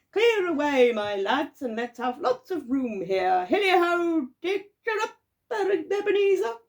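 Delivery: loud, high rallying calls; jovial shouting. A narrator's reading. Fezziwig ordering apprentices to clear room, jovial shouts.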